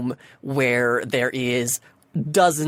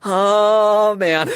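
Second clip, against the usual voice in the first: a hammed-up glum groan, louder; mock dejected sigh; 7 semitones higher, 7 dB louder than usual. Lonely cosplayer sitting alone, mock dejected. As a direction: sulk aloud like a lonely cosplayer. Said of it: "like, doing the".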